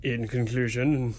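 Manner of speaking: slow, understated sign-off; measured sign-off. Pretend. Co-host trying out the show's ending, slow and understated. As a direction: draw it out without any push.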